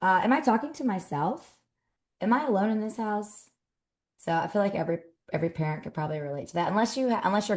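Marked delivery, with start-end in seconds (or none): 0.0-3.5 hammed-up disbelief at the kids; exasperated mom. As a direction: ask the kids if you're going insane.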